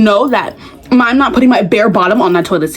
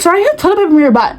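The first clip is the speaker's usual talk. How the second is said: quick, higher, laughing through it; amused awkward heads-up; 7 semitones higher, much faster than usual. Retold or imitated. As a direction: imitate a classmate rushing out an awkward warning. Acts out classmate's awkward notice.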